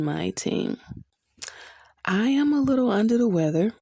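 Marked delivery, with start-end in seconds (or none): 2.0-3.7 stuffy, blocked-nose voice. Real, not acted. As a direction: talk through a stuffy cold nose. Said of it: "that's why I'm sounding very stuffy".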